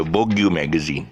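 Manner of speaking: "Vogue" as two beats, "VOG-you"; mispronounced Vogue. Retold or imitated. Retelling a guy's blunder, "Vogue" said as vog-you. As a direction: add a "you" to the end of "Vogue". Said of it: "it's not Vogue, it's Vogue".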